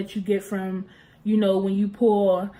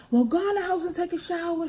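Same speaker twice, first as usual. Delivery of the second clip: imitating mom, higher; 8 semitones higher than usual. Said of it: "She was like".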